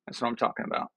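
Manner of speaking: whispered, pleased. Real, not acted. Vlogger savouring his Coke, pleased whisper. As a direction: breathe it out in delight.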